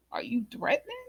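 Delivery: hushed, pointed whisper; breathy incredulous whisper; whispered challenge. Retold or imitated. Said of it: "And I was just like".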